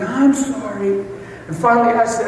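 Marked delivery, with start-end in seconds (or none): 0.0-1.1 retold thought. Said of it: "and I'm thinking".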